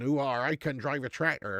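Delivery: lightly voiced Dorset country bumpkin. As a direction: put on a mild rural Dorset accent. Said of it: "which is the country bumpkins".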